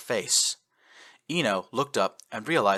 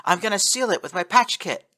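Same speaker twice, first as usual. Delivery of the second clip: put-on French accent; 10 semitones higher, 4 dB louder than usual. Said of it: "who spoke in a French accent".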